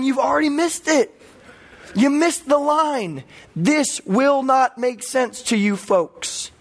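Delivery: slow down and hammer home the correction; emphatic mock correction. God tells churchgoers they missed it, emphatic.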